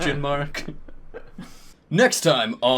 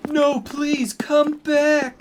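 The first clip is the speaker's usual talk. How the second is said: much higher mock plea; higher, hammed-up pleading; 11 semitones higher, slower than usual. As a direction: beg her back with fake heartbreak. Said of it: "shouted Draco sadly".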